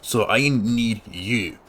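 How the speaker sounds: lightly voiced grumbling old farmer; gruff farmer NPC voice. Farmer grumbling to the hero about pirates, lightly gruff. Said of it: "the voice I did for you".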